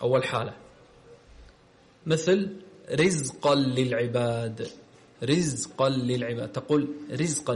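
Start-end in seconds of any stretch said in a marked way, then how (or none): 2.9-7.6 رزقا with a thin, light ra on its kasra. Shown as a demonstration. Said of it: "ترقيق الراء".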